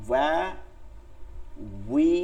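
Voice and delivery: "ওয়া", "উই" isolated, starting from rounded lips; rounded w demo. Shown as a demonstration. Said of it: "গোল করে বলতে হবে". (ঠোঁট গোল করে "ওয়া", "উই")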